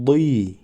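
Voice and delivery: بی with a clear i vowel; syllable demo. Shown as a demonstration. Teacher models بی with kasra. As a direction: say بی crisply.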